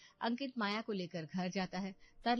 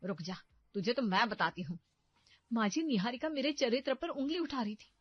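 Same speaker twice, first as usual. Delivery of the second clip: loud, shrieking threats at daughter-in-law; furious mother-in-law; 4 semitones higher, 7 dB louder than usual. Acted. Mother-in-law berates Barkha to defend her daughter, furious. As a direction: tear into her, high and loud.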